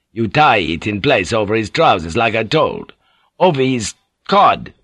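a lightly voiced rough sailor, grumbling; coarse boatswain. Boatswain muttering over the sick pilot, lightly voiced rough sailor. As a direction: grumble it like a crude old seaman.

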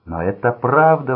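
wounded man crying out to his captor; exclaim. A narrator's reading. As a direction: cry out that it is true. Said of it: "воскликнул Рой".

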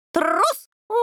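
roar. A narrator's reading. Puppy roars at the devil, calling him coward. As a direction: bark the insult at him. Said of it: "взревел Роберт".

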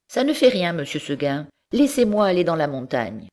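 high, insistent goat voice; stubborn goat. Acted. Goat insists to monsieur Seguin, stubborn. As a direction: insist like a headstrong little goat.

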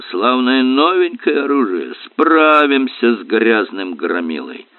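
lightly voiced hoarse old sailor; a hint of a rough old seaman. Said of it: "хрипло проговорил старый моряк".

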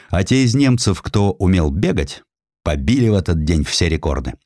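ordinary delivery, nothing marked

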